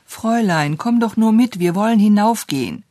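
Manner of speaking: put-on high, eager child's call; urgent appeal. A narrator's reading. Little girl urging the governess upstairs, excited.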